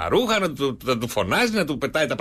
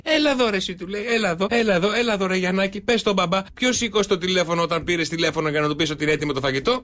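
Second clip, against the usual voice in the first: wife summoning son; 5 semitones higher, faster than usual. Acted. Wife calls son as witness.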